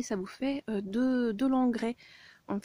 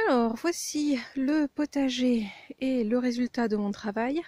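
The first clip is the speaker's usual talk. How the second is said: breathless after carrying wheelbarrows; talking while catching breath; 3 semitones higher than usual. Real, not acted. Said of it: "je suis essoufflée".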